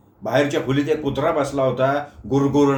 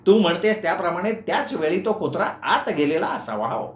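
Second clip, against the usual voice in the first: lightly voiced fussy old uncle, higher; flustered uncle; 4 semitones higher than usual. Uncle explains to Meenu the aunt shut the door, flustered. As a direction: backpedal and shift the blame.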